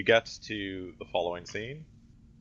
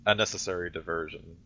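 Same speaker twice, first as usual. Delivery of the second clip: lightly rasped woman's voice; a hint of a raspy hooded woman; raspy female voice. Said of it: "in the raspy female voice".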